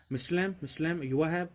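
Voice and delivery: high, worried calling out; anxious calling. Acted. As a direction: call his name, anxious for an answer. Derry calls out, no one answers.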